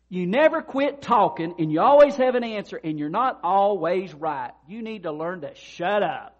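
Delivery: loud, high rebuke that slows at the end; stern scolding. Retold or imitated. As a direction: lay it out firmly, then drag out the last point. Professor rebukes talkative student.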